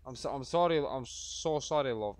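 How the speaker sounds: mock apology. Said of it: "No, I'm joking".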